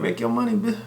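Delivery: hammed-up cheering for her to make money; hyped cheering. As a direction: cheer her on like a hype friend. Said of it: "I was like".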